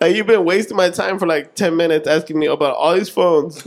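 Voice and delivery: high, loud, laughing disbelief; you can't believe he wasted your time; incredulous. Retold or imitated. Clerk to the customer who only wanted the phone, incredulous and laughing.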